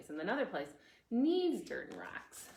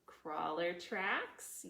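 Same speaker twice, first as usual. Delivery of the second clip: slow teacher answer; much slower than usual. Shown as a demonstration. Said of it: "Do you remember what".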